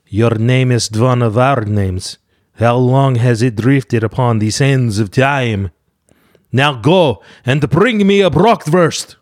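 slow, solemn, lofty pronouncement; grand slow lady. Retold or imitated. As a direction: speak slowly like an ancient queen. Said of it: "might sound something like this".

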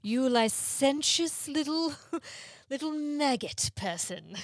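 a hammed-up British insult; parody British accent. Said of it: "you need a British accent or a very poorly".

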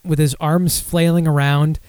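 slow, drawn-out retelling; x0.7 slow version of the same phrase. Shown as a demonstration. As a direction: draw the words out as you picture it again. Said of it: "Actually, now I'm picturing him".

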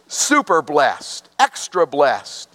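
"Super" and "extra" slow, each pressed hard; super emphasized. Shown as a demonstration. Pastor explaining the word, slowly stressing "Super blessed, extra blessed". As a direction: punch "Super" and "extra" slowly, one at a time. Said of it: "It's like we'd say it's super emphasized".

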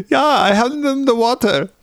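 high put-on voice; hammed-up retelling of a flimsy excuse; mock student excuse. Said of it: "another time I was like".

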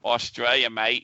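lightly put-on Australian accent. Co-host joking about mail from Australia, mock Australian accent. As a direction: play an Aussie saying hello. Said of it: "where's the accent?".

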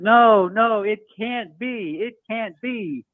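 high, pleading near-sob; imitating a shocked companion close to crying; near tears. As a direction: beg it not to be true, voice about to break. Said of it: "he almost started to cry".

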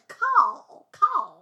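Carl said as "Cah", the L dropped; Carl without the L. Retold or imitated. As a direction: drop the L from Carl, drawn out. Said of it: "they don't pronounce the L".

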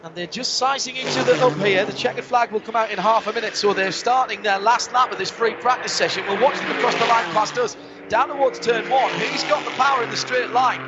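live race play-by-play; motorsport commentator. Acted. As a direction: call the last lap as it unfolds. Live play-by-play of final lap.

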